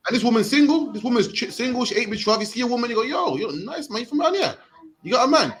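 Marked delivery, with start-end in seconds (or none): 3.0-5.5 a little higher, playful pickup line; mock flirt to a stranger, lightly higher; smooth chat-up line.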